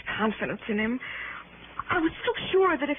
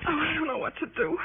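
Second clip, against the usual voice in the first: quiet, breaking voice on the edge of crying; she's scared and helpless, voice giving way; a frightened wife close to tears, breaking; frightened near tears; 3 semitones higher, 4 dB quieter than usual. Acted. Badly frightened young woman alone.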